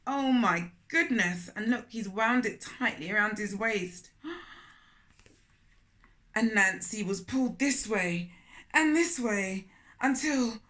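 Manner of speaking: put-on storytelling voice for children; gentle read-aloud storytelling; story narration. A narrator's reading. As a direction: read it like a picture book aloud. Narrating the climax.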